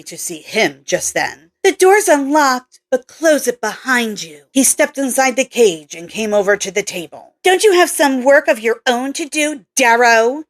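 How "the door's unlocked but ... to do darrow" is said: lightly raised voice for Kelly, a bit curt; a hint of a brusque young scientist; Kelly's voice.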